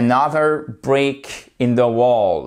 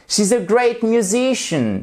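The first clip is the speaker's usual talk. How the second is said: raised teacher demo voice; model sentence; 9 semitones higher than usual. Shown as a demonstration. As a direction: showcase the full sentence. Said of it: "il faut tous les mots". (phrase modèle, voix de démonstration plus aiguë)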